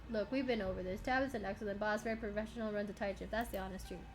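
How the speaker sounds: mildly impatient repeat of a stock answer; brushing off. Acted. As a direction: rattle it off to close the subject. Miner repeats stock answer, fed up.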